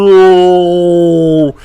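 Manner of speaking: loud, startled no; alarmed shout of no; panicked no. Retold or imitated. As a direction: cry out as the mouth comes. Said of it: "And I'm like".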